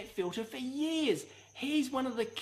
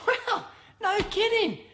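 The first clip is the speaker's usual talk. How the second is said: sarcastic laugh; 8 semitones higher, 6 dB louder than usual. Real, not acted.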